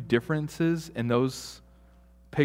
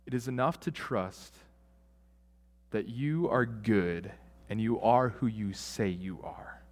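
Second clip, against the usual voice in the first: hushed trust; 3 semitones lower, 6 dB quieter than usual. Acted. Quiet trusting prayer.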